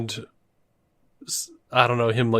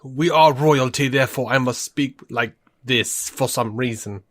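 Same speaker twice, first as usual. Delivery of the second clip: over enunciating. Retold or imitated. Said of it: "Over enunciating every symbol".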